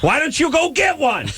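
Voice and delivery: high, sarcastic jab at the dentist; mock exasperated. Patient mocking the smug dentist, high sarcastic voice. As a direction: needle him with a high mocking question.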